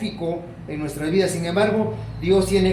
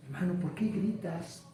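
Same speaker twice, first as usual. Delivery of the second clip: softly voiced pastor; quiet acted question; 10 dB quieter than usual. Pastor asking a shouting brother why, quiet voice.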